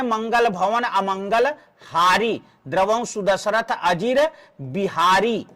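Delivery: measured chaupai recitation, long line endings; verse recitation. Shown as a demonstration. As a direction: recite it, stretching the final long syllables. (चौपाई का लयबद्ध पाठ)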